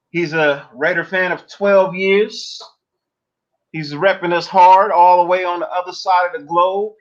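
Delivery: stretched, booming ring-announcer build-up; hype announcer intro. Acted. Host introduces his Australian guest to the stream, hyped announcer voice. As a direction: bring the guest out like a ring announcer, drawing out down under. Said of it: "thanks for the beautiful intro".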